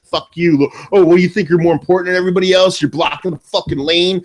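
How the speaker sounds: mild mock yell from an irate driver; half-strength road-rage rant; retold angry yelling. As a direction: imitate a fuming driver, only part volume. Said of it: "started yelling at me".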